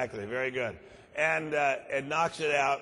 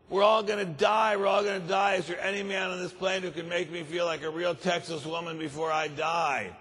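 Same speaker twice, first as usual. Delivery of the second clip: panicked wail; 3 semitones higher than usual. Acted. Woman panics as plane crashes.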